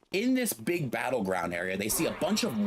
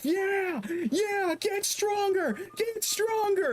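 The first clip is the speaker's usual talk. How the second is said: much higher, drawn-out hyped gym bro cheer; slower than usual. Retold or imitated. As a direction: pump them up like a rowdy gym bro. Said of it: "and they're, like, cheering".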